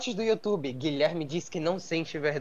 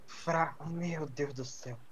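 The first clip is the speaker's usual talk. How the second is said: stifled giggles; 3 semitones lower, 7 dB quieter, slower than usual. Real, not acted. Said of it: "Eu não consigo ficar sério".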